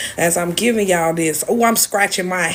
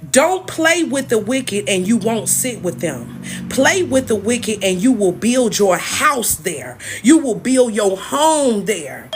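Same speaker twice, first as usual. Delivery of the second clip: preaching. Acted. Preaching her message to viewers, slow and emphatic. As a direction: drive the warning home slowly.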